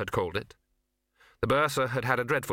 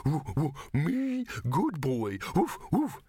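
high eager yipping dog voice; excited dog; 4 semitones higher, slower than usual. Acted. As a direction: gush like a happy dumb dog.

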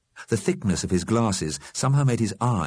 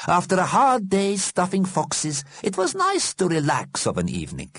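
wistful; 12 semitones higher than usual. A narrator's reading. Einstein remembers the pub to Fletcher, wistful. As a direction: reminisce in a high, longing voice. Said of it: "said Einstein wistfully".

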